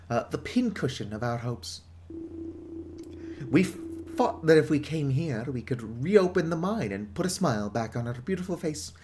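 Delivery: gruff British pub owner, lightly voiced; British publican. Pub owner warning the outsider off, British accent. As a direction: warn off the outsider like an old barkeep.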